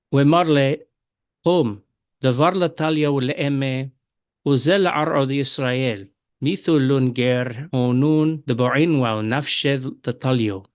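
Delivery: verse twenty read in Western Syriac, talio with o; Western Syriac accent. Shown as a demonstration. Teacher reads verse twenty to students in Western Syriac accent. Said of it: "first in the Western accent".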